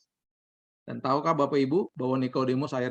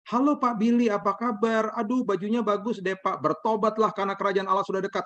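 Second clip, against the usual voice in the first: bright, much higher greeting that swerves into a call to repent; cheery mall greeting; 6 semitones higher than usual. Pretend. Pastor greets a congregant at the mall, in a cheery high voice. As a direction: play it as an overly friendly hello, then preach. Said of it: "saya ngomong gitu".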